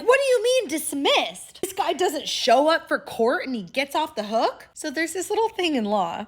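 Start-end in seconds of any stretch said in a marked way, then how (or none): 0.0-4.7 high, loud, indignant mock yelling; outraged outburst. Cop loses it when the case is dismissed, outraged outburst. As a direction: lose it in shrieky disbelief. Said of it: "the cop loses his shit".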